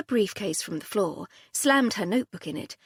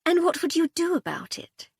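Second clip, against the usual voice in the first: sneering challenge, pitched high; 10 semitones higher, 4 dB louder than usual. A narrator's reading. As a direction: throw the question back with a high sneer. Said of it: "Cordelia sneered at me".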